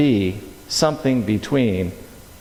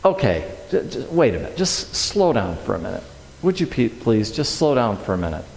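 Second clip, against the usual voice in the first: self-calming; 4 semitones lower, 4 dB quieter than usual. Retold or imitated. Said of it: "I'm just sitting there going".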